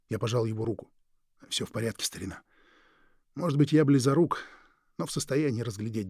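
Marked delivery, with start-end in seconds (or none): none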